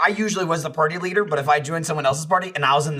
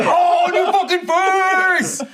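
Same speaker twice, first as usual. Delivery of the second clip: slow, high, louder laughing taunt; mocking taunt; 5 dB louder, much slower than usual. Taunting a killed opponent, slow laughing gloat. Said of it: "and I'm like".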